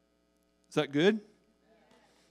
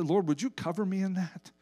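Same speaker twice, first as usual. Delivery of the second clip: quiet repentant prayer; 5 dB quieter than usual. Retold or imitated. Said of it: "go back to the Lord and say".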